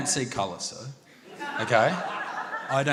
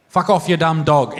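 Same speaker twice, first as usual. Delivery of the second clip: put-on broad Australian accent; 3 semitones lower, 4 dB louder than usual. Lover talking to a partner during passion, broad Australian accent. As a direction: lower broad Aussie insult. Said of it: "The white Australian accent".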